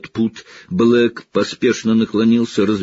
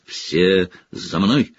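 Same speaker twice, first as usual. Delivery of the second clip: command; much slower than usual. Acted. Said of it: "скомандовал Снегг".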